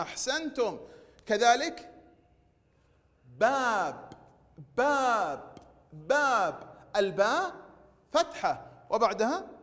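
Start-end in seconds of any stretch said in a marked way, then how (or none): 3.4-6.7 باب with a long, falling aa; long alif vowel. Shown as a demonstration. Teacher modelling alif words for pupils, stretched vowel. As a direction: hold the aa in each باب. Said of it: "ممدود بالألف".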